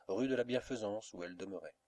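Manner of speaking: plain reading voice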